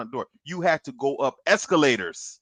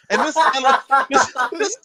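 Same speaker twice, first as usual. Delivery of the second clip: drawn out slow and louder; slow dramatic; 10 semitones higher, 6 dB louder, slower than usual. Acted. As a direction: stretch every word out. Slow comic emphasis.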